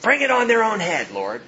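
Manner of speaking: acted vengeful plea with emphatic high starts; vengeful prayer. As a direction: call down payback in prayer. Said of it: "it sounds vengeful".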